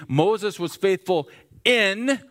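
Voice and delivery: "in" drawn out, slow with a rising tune; stress on in. Shown as a demonstration. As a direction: slowly lean on "in". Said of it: "In, over, significant".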